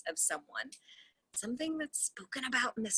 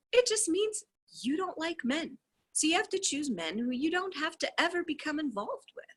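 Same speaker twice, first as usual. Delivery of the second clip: steady, even reading of a dialogue; reading a transcript aloud. Acted. Reader reads the call transcript to viewers, steady reading voice. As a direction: read the call text out, voicing both sides lightly.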